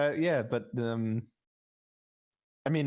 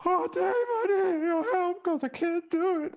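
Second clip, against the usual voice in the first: very high, louder mock American accent; hammed-up helpless American whine, pitched way up; Spoody; 4 dB louder than usual. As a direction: squeal out a caricatured American accent. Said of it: "Spoody accent".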